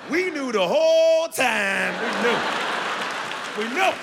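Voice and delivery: mock-outraged we knew; exasperated shout. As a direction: belt out that it was obvious. Insisting comically on obvious fact.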